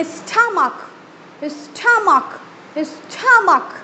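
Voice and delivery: "stomach" with t burst to aspirated th; busting sound. Shown as a demonstration. Teacher demos the busted t in stomach. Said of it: "आपका ठा में जाएगा".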